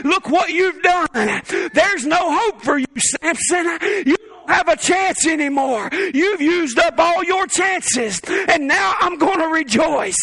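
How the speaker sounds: slow, lightly voiced taunting devil; gloating enemy. Preacher voicing the enemy gloating over fallen Samson, slow mock taunt. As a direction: lean into a half-hearted gloat. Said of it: "Has the enemy ever spoke to you that way?".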